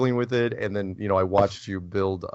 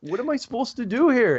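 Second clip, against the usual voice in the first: retold squeaky, incredulous comeback; exaggerated bewilderment, pitched way up; high-pitched protest; 4 dB louder than usual. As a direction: protest in a mock-helpless high voice. Retold protest to angry interviewer.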